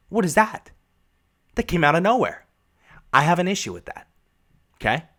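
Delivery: high, indignant protest; fed-up viewer protesting; real indignation. Real, not acted. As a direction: complain like a wronged fan. Outraged at the show.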